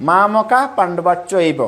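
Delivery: মা মকা পাণ্ডবা চৈব with a light h; পাণ্ডবা চৈব split as পাণ্ডবা and চৈব; careful recitation. Shown as a demonstration. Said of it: "এখানে পাণ্ডবা চৈব উচ্চারণ হবে".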